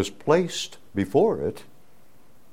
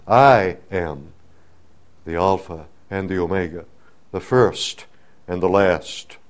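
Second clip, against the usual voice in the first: proclaiming as God; 5 dB louder than usual. Acted. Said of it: "identifies himself as Yahweh".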